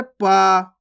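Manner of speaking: each letter drawn out alone, long pauses between; वर्ग का पाठ. Shown as a demonstration. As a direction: recite the syllables one by one for a class. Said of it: "अब क्या पा वर्ग होता है ना". (एक-एक अक्षर, रुक-रुककर)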